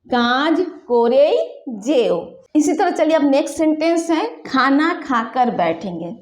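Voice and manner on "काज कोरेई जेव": slow, pressing on कोरेई; insist, dwelling on कोरेई; emphatic demo. Shown as a demonstration. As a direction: lean on the ई of कोरेई. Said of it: "मतलब हम जोर दे के बोल रहे हैं".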